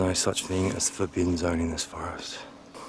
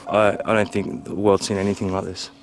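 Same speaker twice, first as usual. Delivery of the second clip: intense; 6 dB louder than usual. Real, not acted. Narrated vlog, loud intense.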